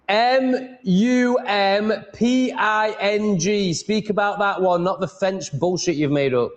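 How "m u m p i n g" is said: M U M P I N G spelled letter by letter, very slow and high; spelling it out. Shown as a demonstration. Spelling M U M P I N G for the AI, irritated and slow. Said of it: "I even fucking spelt it for you".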